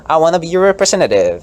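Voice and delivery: high, loud earnest pitch; hammed-up politician plea; acted candidate. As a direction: plead like a candidate. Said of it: "I'm just like".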